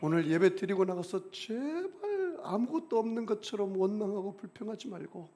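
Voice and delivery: usual speaking voice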